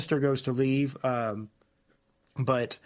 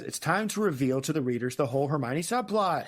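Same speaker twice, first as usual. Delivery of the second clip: mock grand announcement. Announcing the big reveal.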